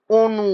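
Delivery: অনু opening on a closed "o", as "onu". Shown as a demonstration. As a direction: start অনু with a rounded ও. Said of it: "অ এর উচ্চারণটা হচ্ছে ও এর মতো".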